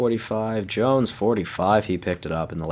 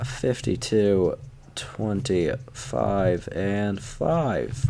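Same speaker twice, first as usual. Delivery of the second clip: slow dictation; 3 semitones higher, much slower than usual. Shown as a demonstration. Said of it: "Let's write that down".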